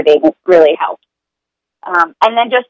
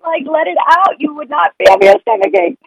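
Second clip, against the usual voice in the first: higher, pleading-exasperated voice; exasperated parent; 10 semitones higher than usual. Retold or imitated. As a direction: beg the child to just let it out. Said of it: "We're like".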